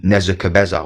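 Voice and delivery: "Nebuchadnezzar" attempted unsurely, mangled to "Nezakabezza"; unsure pronunciation. Real, not acted. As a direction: stumble into "Nebuchadnezzar" as roughly "Nezakabezza". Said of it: "I don't know if I pronounced that correctly".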